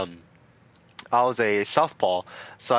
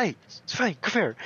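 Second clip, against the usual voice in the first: coach calling out; 6 semitones higher than usual. Retold or imitated. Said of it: "My coach would be like".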